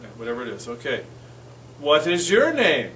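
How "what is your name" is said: slow clear English. Shown as a demonstration. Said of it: "Cómo se llama usted".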